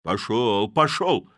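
loud "Пошёл, пошёл!" shoved out; shout. A narrator's reading. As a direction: yell him off. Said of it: "кричал кузнец".

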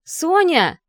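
calling out high and loud across a crowd; a friend yelling a name from behind a barrier. Acted. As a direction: shout her name over the noise. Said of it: "громкий возглас".

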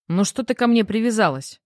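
mildly annoyed, defensive protest; irritated retort. Acted. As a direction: fend off a nagging question. Husband irritated by wife's questioning.

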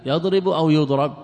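يضرب as yadrib, then يضرب as yudrab, with the first vowel clearly marked; contrasting vowel readings. Shown as a demonstration. Teacher contrasting the two vowelings of يضرب for students, firm. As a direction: stress the opening vowel of each يضرب. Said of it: "الإشكال يكون في ماذا؟ في الياء".

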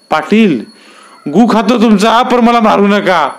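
high, slow grovelling plea; desperate begging. Acted. Fisherman grovels before the Patil, desperate and high. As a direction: grovel for your life.

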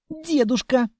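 squeak. A narrator's reading. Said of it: "запищало дитя".

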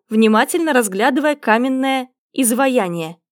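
ordinary delivery, nothing marked

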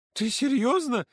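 put-on high, loud girl's disbelief; hiccuping with laughter. A narrator's reading. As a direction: hiccup through leftover laughter. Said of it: "икая, всхлипывая". (Ксюша икает от смеха)

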